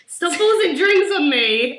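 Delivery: slow, drawn-out mock protest. Friend imitates John grabbing them at the bar, mock protest.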